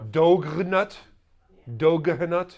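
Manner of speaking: Dogernut with every letter sounded; mock spelling pronunciation. Shown as a demonstration. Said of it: "What's this?".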